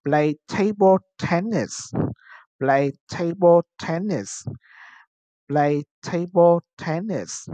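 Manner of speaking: measured "Play table tennis" for learners to repeat; model pronunciation. Shown as a demonstration. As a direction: say "Play table tennis" word by word, TA-ble and TEN-nis stressed first. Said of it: "Now, repeat after me". (đọc mẫu "Play table tennis" cho học sinh lặp lại)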